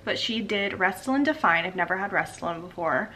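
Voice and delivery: talking through freshly swollen lips. Real, not acted. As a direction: lips too swollen to move much. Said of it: "It's so hard to talk after you get your lips done".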